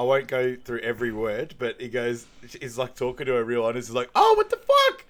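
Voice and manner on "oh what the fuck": high, loud mock outburst; high-pitched mock yell; imitated yelling at the screen. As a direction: imitate someone shouting at a movie. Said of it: "yelling at the screen".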